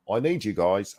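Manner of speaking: badly faked Aussie accent at normal pitch; Barney's accent. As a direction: have another clumsy go at Aussie. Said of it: "I can't do his accent".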